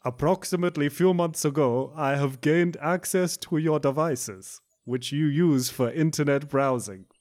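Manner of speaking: a light mock Russian accent, unhurried; bad Russian accent. Reading a hacker's email in a bad Russian accent. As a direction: read the threats like a bored Russian scammer. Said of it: "the funny accent comes in".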